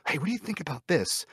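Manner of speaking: high, retold proposal; tentative pitch. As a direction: float it in a high voice, as if testing an idea. Acts out pitching an idea.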